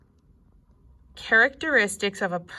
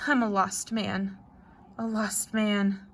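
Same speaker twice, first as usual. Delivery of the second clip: wobbly voice; 3 dB quieter than usual. Acted. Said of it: "in a wobbly voice".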